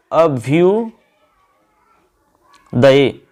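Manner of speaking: अभ्युदये stretched syllable by syllable, very slow; drawn out slowly. Shown as a demonstration. Teacher slowly sounding out अभ्युदये for students. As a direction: spell out अभ्युदये slowly for the class. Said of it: "थोड़ा सा देखो यहाँ".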